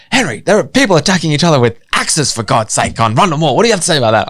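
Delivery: playful imitation of alarmed questioning; imitating radio host. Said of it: "David was like".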